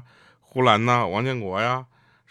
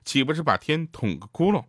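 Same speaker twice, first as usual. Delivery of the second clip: puzzled questioner; 6 semitones higher than usual. Retold or imitated. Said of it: "又问说".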